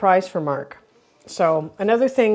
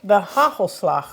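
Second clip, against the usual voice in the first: mouth full; 2 semitones higher, slower than usual. Real, not acted. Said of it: "I got a mouthful of sticky peanut butter".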